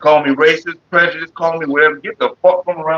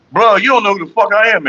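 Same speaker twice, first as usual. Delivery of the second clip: the same boast, somewhat higher but calmer; milder retort; 5 semitones higher than usual. Retold or imitated. Man repeats his store boast, calmer, a touch raised. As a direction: repeat the boast with less heat.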